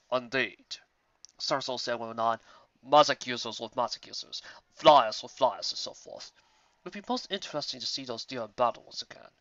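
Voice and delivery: a hint of a courtly stallion musing; Starswell. Starswell voiced in story.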